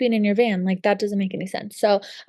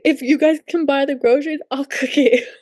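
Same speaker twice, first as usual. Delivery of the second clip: eager guest; 5 semitones higher than usual. Retold or imitated.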